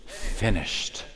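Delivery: breathy whispered last word; whispered finished. Acted. Whispered final cry.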